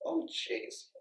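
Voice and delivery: high, mock-shocked "oh" exclamations; fading from high mock gasp to breathy; mock dismay. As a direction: ham up a gasping, fretful onlooker. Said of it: "he didn't go".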